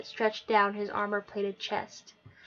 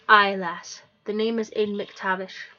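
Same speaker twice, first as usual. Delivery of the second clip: a hint of Scottish hero; 6 dB louder than usual. Aiden introduces himself.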